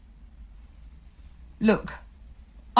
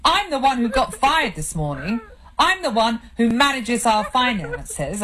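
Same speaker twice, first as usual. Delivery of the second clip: angry tirade; 5 semitones higher than usual. Acted. Husband berating his crying wife, angry and bitter. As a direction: lay into her, bitter and angry.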